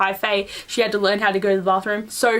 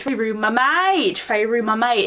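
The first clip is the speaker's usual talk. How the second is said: drawn-out mock quote; much slower than usual. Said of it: "if I could find some of these quotes".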